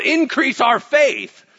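slow, high, drawn-out reading of scripture; solemn plea. Acted. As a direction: stretch "Increase" out like a grave request. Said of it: "The apostles said to the Lord".

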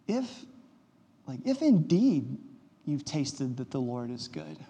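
hushed, leaning-in delivery; almost whisper it, intimate and close. Retold or imitated. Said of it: "He lowers his voice, he leans in".

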